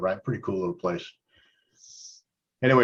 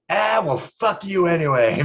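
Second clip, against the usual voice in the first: dismissive retort; 7 semitones higher, 3 dB louder, slower than usual. Retold or imitated. Chris retorting to bartender.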